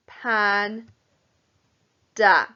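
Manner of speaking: pan then da, the da punched loud; separate syllables. Shown as a demonstration. Teacher joining two syllables for children. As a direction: split the syllables apart. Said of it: "I join the two syllables together".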